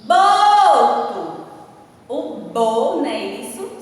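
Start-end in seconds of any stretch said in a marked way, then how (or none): 0.0-1.5 "Boto!" with the first syllable held long, loud and higher; stress on Boto. Shown as a demonstration. Teacher showing children the strong syllable, "Boto!" with a long, stressed first syllable. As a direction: call out "Boto!", stretching and punching the "Bo". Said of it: "Circulem no bo".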